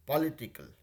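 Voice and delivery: पॉलिटिकल said slowly, each syllable given its time; unhurried careful पॉलिटिकल for the class; slow, deliberate political. Shown as a demonstration. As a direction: take your time over पॉलिटिकल, syllable by syllable. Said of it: "थोड़ा सा ठहराव के साथ पॉलिटिकल".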